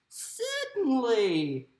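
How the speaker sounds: slow, lilting Australian mama kangaroo; motherly kangaroo in an Australian accent; Australian woman. Acted. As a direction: draw it out as an Aussie woman. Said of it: "how is my Australian accent going to sound more like a woman".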